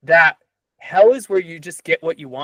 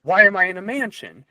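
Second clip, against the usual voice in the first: mock bewilderment, pitched higher; lightly acted puzzlement, raised pitch; confused; 4 semitones higher than usual. Thief waking in a mansion, confused. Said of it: "And he's confused".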